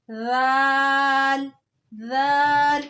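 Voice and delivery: "राल" said softly with the tongue tip on the upper teeth, slowly; soft zaal. Shown as a demonstration. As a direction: soften "राल" like a lisped th. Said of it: "इसको भी नरमी से पढ़ना". ("राल" नरमी से)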